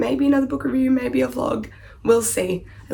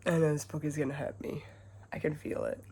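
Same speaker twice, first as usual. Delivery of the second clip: soft whisper, fearing heartbreak; 5 semitones lower, 14 dB quieter than usual. Real, not acted. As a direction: whisper it, close to the mic.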